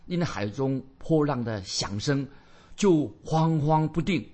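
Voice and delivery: slow, drawn-out proclamation of verse; measured Bible recitation with weighty pauses; solemn scripture reading. Acted. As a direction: declaim each phrase slowly, pausing between them. Reads scripture aloud.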